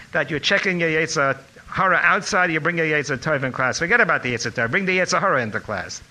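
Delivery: put-on high, loud Lithuanian-accented scolding. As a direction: imitate a rabbi's Lithuanian accent. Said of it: "in his Lithuanian accent".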